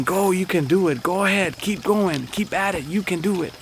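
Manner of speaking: imitating an excited cheering crowd; cheerleader encouragement. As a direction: cheer them up the hill like a cheerleader.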